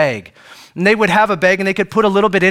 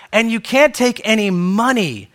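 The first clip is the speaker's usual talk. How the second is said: Jesus's next rule; 4 semitones higher than usual. Retold or imitated. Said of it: "then Jesus says".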